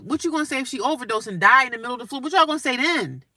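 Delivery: rising, fast, heated challenge; indignant challenge. Real, not acted.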